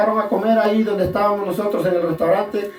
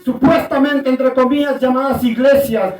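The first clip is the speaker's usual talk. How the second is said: raised preacher's delivery in short bursts; emphatic preaching; 3 semitones higher, 4 dB louder than usual. Real, not acted. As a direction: press each phrase on the congregation. Keeps preaching to congregation. (prédica enfática, con pausas)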